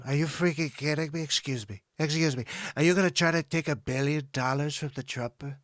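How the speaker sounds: lightly voiced Trump and Doctor Evil bits; Trump and Doctor Evil sketch. Host doing his political satire sketch, lightly voiced. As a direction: trade lines between Trump and Doctor Evil. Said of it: "pretty good Donald Trump impression".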